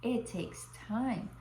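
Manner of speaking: lightly voiced loving father; tender reassurance. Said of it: "he said".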